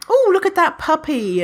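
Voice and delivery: high cooing at a puppy; high delighted puppy voice. Retold or imitated. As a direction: coo as if spotting a puppy. Voicing delighted thought about puppy.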